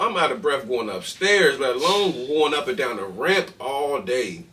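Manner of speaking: telling it with rising fire; excited. Real, not acted. Excited retelling of hard job.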